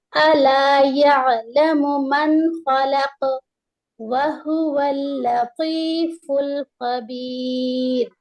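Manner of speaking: slow, full tajweed chant; slow recitation. Shown as a demonstration. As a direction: recite the whole verse slowly and clearly. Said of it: "full verse recited slowly".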